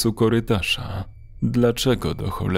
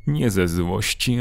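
ordinary delivery, nothing marked

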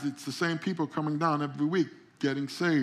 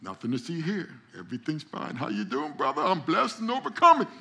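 putting on a mask; 2 semitones higher, 3 dB louder than usual. Retold or imitated. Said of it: "I call it putting on your mask".

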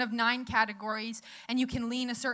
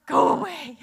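mock annoyed; 3 semitones higher, 11 dB louder than usual. Wife snaps back at husband.

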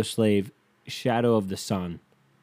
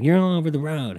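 imitating her scolding, higher and louder; retold scolding with a raised voice; mock berating; 6 semitones higher, 5 dB louder than usual. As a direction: scold as if mimicking a backseat driver. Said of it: "then she's berating me".

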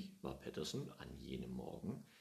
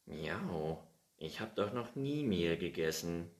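mildly offended, indignant cat; a hint of huffy denial; 2 semitones higher, 5 dB louder than usual. Findus denying he ate the flour, a touch offended. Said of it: "sagte Findus beleidigt".

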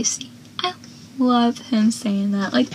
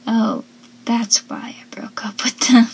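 whispered realization. Retold or imitated. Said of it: "you remember".

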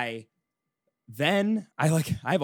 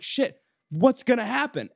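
panicked worry; 11 semitones higher, 4 dB louder than usual. Retold or imitated. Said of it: "I was, I was like".

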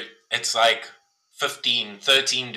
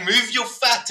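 barking instructor; 11 semitones higher than usual. Retold or imitated. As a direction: bark the gear like a pushy teacher. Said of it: "is like".

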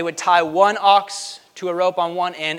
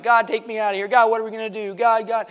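mock escapist plea; 5 semitones higher than usual. Voicing escapists pleading to heaven.

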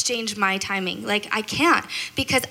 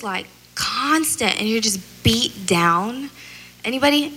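ordinary talk

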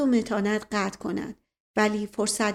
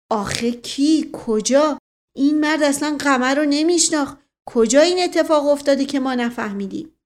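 louder, higher angry questions; choked with rage; 5 semitones higher, 6 dB louder than usual. A narrator's reading. Furious Dustali Khan demands to know when and where, choked anger. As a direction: drag out the first words, then burst out indignantly.

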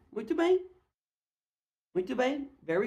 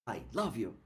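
soft quoted line; 11 semitones lower, 10 dB quieter than usual. Acted. Example quote, tender.

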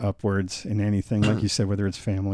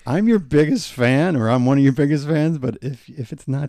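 hammed-up fan, pitched higher; lightly voiced impression, uneven pace; bad impression voice; 4 semitones higher, 5 dB louder than usual. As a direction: put on a higher, louder mock voice. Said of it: "don't ever do that impression again".

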